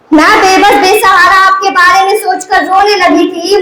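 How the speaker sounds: lilting declamation, phrases sinking at their ends; poem recitation. Acted. Soldier's wife answers her absent husband, a pleading verse recital. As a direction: recite the wife's lament in measured verse.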